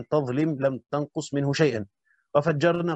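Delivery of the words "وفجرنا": وفجرنا with a doubled, held jeem. Shown as a demonstration. Teacher reciting the common reading, وفجرنا with doubled jeem. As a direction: stress the geminated j in وفجرنا. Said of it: "قرأ العامة بالتشديد".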